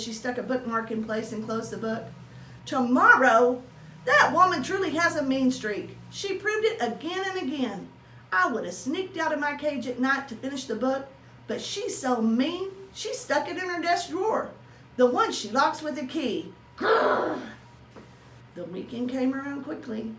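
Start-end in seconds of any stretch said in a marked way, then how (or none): 2.7-16.5 indignant rant. Acted. Hamster outraged at teacher. 16.8-17.4 loud, high little growl; a small hamster's angry grrr; frustrated growl. Acted.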